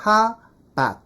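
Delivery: "how about" reduced to "ha-bat"; further elision. Shown as a demonstration. Teacher showing a further shortcut, middle vowel dropped. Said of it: "그래서 또 날려".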